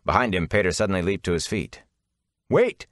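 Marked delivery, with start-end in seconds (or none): 2.5-2.9 high desperate cry. Acted. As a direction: plead urgently, voice jumping up. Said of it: "he said desperately".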